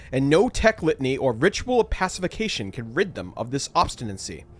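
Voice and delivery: lightly voiced dutiful officer reporting trouble; a touch of formal servant reporting, slowing toward the end; Voxmaster voice. Voxmaster warns the Captain about restless servitors, lightly voiced formal report. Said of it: "I'll do the Voxmaster".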